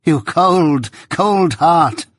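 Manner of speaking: high, anguished reproach; theatrical wounded outburst; bitter exclamation. A narrator's reading. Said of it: "exclaimed Miss Havisham".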